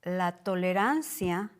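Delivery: ordinary delivery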